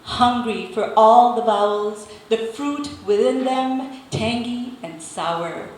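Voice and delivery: measured spoken-word delivery; deliberate poem reading with pauses between images; poetry recital. Acted. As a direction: read your poem to an audience, phrase by phrase. Recites own poem to audience.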